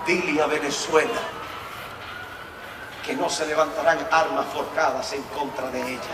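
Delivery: soft, quiet, unhurried words from God; calm divine voice. Retold or imitated. Preacher recalls God's first quiet message to him, softly. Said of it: "sin desviarme de lo que quiero decir".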